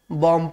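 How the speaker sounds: "बम" with a silent b, ending on m; right pronunciation. Shown as a demonstration. Teacher explains that the b in bomb is silent. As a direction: say "बम", no b at the end. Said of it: "बी O M बी को बम नहीं पढ़ते".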